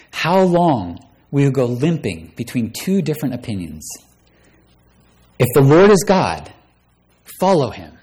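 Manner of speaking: preacher reading the Bible aloud with dramatic swings in voice; bold, theatrical Bible reading; dramatic scripture reading. Acted. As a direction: read the story like a pulpit drama. Preacher reads 1 Kings 18 aloud.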